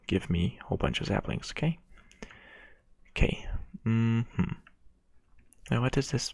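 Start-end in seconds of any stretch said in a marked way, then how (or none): 0.1-1.8 soft whispered plea; whispering. Real, not acted. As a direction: whisper it to the villager. Whispered plea to game villager.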